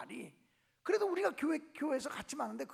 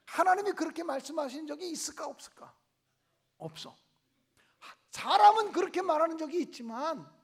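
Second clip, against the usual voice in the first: usual speaking voice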